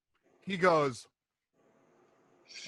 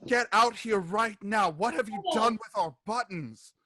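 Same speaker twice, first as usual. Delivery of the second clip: angry demand; 5 semitones higher than usual. Acted. Gretchen yells through Bebo's door.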